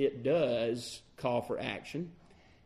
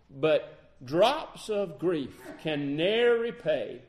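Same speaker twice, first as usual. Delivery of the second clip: hymn lines spoken with long pauses; measured hymn recitation. Real, not acted. Preacher quoting the hymn to congregation, measured recitation. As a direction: recite it deliberately, phrase by phrase.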